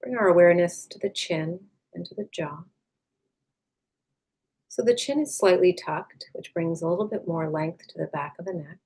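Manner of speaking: calm, unhurried meditation voice with long pauses; guided meditation. Acted. Meditation teacher leading listeners to release tension, calm and unhurried. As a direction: gently guide them inward, leaving space after each phrase.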